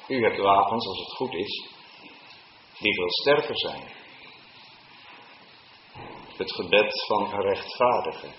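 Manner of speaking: ordinary talk, nothing marked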